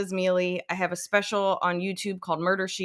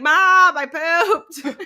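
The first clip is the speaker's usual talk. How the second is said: put-on high, loud synthetic child voice; canned electronic toddler announcement; robot app voice; 12 semitones higher, 7 dB louder, much slower than usual. Litter box app alerting its owner, robotic kid voice. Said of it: "an app that, like, is literally like".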